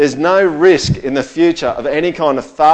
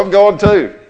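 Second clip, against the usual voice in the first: mock gag reaction; 7 semitones higher, 8 dB louder than usual. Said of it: "you just go".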